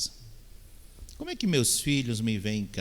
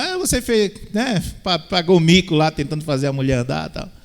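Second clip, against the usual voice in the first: teasing jab, much higher and louder; mocking interviewer; 7 semitones higher, 7 dB louder than usual. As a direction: needle him like a smug reporter. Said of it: "alguém fala". (zombando, com voz bem mais aguda)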